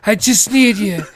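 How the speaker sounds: high, slow, laughing through the groom's request; giggling high and slow as the groom; laughing quote. Retold or imitated. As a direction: say it while cracking up. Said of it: "He's like".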